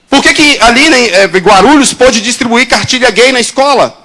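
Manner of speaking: rally the congregation with fervor; full-force preaching. Acted. Preacher rousing his church, fervent preaching.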